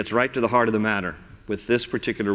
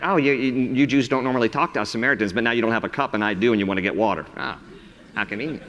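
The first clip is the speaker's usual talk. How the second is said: sassy woman; faster than usual. Pretend. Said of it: "She's a little sassy".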